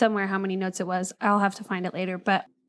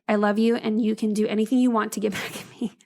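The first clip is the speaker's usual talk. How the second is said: laughing while reading. Real, not acted. Reading letter, breaking into laughter.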